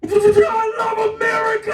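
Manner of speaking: high-pitched mock patriotic yell; drunken exuberant shout. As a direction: whoop it out like an armed drunk. Drunken driver with AK and vodka shouts.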